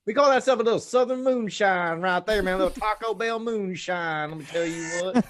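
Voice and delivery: lightly voiced lazy buddy giving soda tips; imitating Dalton. Mocking absent friend Dalton to the podcast crew, dude voice. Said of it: "He's like".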